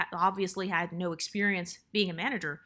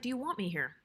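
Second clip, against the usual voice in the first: calm, softened repeat with falling end; 2 semitones higher, 5 dB quieter than usual. Retold or imitated. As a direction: put the question quietly and evenly. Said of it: "said it in a very calm tone".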